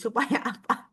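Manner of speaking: ordinary talk, nothing marked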